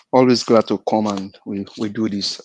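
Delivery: talking through a mouthful of food; words round a bite of food; mouth full. Real, not acted. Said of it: "I think I have my mouth full".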